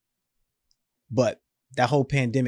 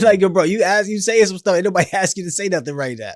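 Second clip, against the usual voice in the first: louder, laughing through the words; 5 semitones higher, 4 dB louder than usual. Real, not acted. Speaker laughs at himself preaching when nobody asked, laughing. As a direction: poke fun at yourself with a laugh.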